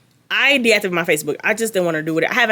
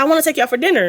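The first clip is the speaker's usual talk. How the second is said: mocking Brittany; 7 semitones higher, much faster than usual. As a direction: coo the invitation like a clingy girl. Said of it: "I cannot stop mocking this girl".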